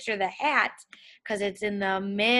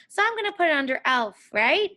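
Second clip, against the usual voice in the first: fast, teasing fake answer; playful trick; 5 semitones higher, faster than usual. Shown as a demonstration. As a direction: pretend to be sure of the wrong spot. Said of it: "I'm trying to trick you".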